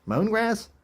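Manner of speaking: high, disbelieving squeak on mown; can't believe the word mown; incredulous. Real, not acted. Vlogger baffled by a Bible word, high disbelief.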